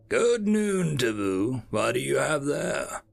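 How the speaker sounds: lightly voiced superior officer; a hint of a lofty boss. Boss answers secretary.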